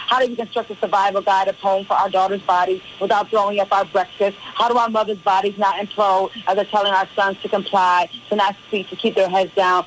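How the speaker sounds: rhythmic, declaiming performance poetry with driving repetition; spoken word poem. Acted. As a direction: preach the poem like a spoken word stage piece. Recites her poem on air.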